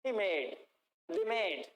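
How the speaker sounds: "she made" linked into one word; short linked drill phrases, "they made" as one; words combined. Shown as a demonstration. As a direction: run "he made" together, weight on "made". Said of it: "थोड़ा सा combine कर करके बोलिए".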